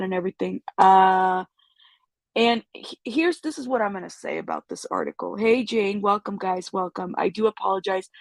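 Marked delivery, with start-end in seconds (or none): 5.4-8.1 stuffy, congested voice. Real, not acted. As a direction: talk through a blocked nose. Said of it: "I know I sound congested".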